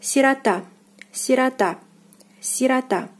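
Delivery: "сирота" said si-ra-TA, stress on the last syllable; "сирота" with reduced O; Russian pronunciation. Shown as a demonstration. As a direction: say "сирота" in separate model takes, O as a. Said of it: "The stress is on the last syllable".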